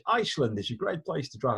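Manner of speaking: lightly mock Icelandic accent; hint of a silly Icelandic accent; put-on Icelandic accent. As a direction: read it as Carl in a comic Icelandic accent. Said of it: "I don't know why I'm doing that accent".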